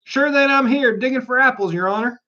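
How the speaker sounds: a hint of a humble Irish labourer; Irish accent. A narrator's reading. Pat answering his master the rabbit, in a light Irish lilt. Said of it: "a voice she had not heard before".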